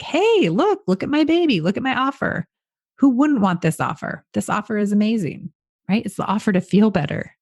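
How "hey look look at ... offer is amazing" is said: high, gushing excitement; gushing proud parent. Shown as a demonstration. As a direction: show off the offer like a new baby. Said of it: "you're gonna deliver it like that".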